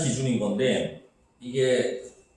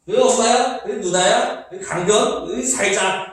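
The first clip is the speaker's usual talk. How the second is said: higher mock principal recital with 으 before each word; stuffy old-fogey reading in four separate beats; school principal; 5 semitones higher, slower than usual. Shown as a demonstration. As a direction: parody a pompous principal reading verse. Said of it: "교장 선생님 말투 같지 않아?".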